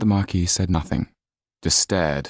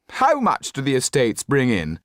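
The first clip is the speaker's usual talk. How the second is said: high, disdainful aristocrat voice; haughty Marquis; 8 semitones higher than usual. Acted. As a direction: sneer it down from on high.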